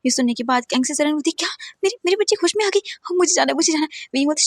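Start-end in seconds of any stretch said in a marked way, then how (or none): 1.4-4.1 mother shocked and desperate to rush; stunned mother. A narrator's reading. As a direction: gasp then urgency to go. Mother hears daughter awake.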